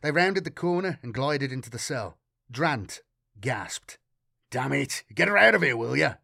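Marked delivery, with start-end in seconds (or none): 4.5-6.2 sharp order. A narrator's reading. Matthias orders the girl taken from the cell, loud command. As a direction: order them out forcefully. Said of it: "Matthias ordered".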